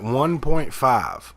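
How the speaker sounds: slow, stunned repeat of one point five; incredulous question. Retold or imitated. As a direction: drag it out in disbelief. Disbelief at the slow internet.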